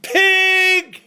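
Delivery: high, loud yell out the car window; hollered insult. Retold or imitated. Passing driver hollering a warning out his window, loud yell. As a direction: bark it as he passes. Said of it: "he hollered".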